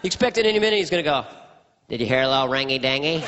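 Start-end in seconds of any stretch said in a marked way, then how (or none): 1.9-3.2 quick folksy presidential voice; comic send-up of a president; George Bush impression. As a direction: president playfully asking a guest. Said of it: "My George Bush impression was".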